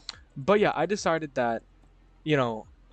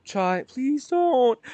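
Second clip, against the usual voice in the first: high, louder plea; pleading with dog; 11 semitones higher, 5 dB louder, much slower than usual. Real, not acted. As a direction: beg the dog to stop.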